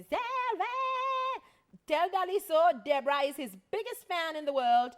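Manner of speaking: high, loud excited shriek; squealed fan message, pitched high and loud; imitated screaming fan. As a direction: read it out as a screaming superfan. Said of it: "well, she's literally screaming".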